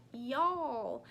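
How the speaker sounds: slow Texas y'all; drawn-out Texas y'all; Texas drawl. Shown as a demonstration. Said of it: "Down here in Texas, we say".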